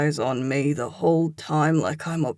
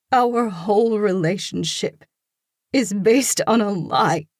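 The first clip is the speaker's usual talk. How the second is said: higher, louder, voice cracking on it; voice breaking; 6 semitones higher, 6 dB louder than usual. A narrator's reading. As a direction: hold back tears as the voice cracks. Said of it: "Her voice breaks".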